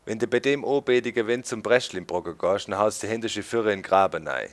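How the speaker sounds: grandmother's Swabian saying, lightly voiced; Swabian dialect. Imitating grandmother's Swabian dialect. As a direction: rattle off the Swabian saying fast at the end. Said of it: "she would say something like".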